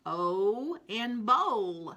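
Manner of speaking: O in bowl said slowly, each sound drawn out; slow phonics drill. Shown as a demonstration. Teacher drawing out O in bowl for children. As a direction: model the sound in bowl for young readers. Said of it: "phonics drill for the class".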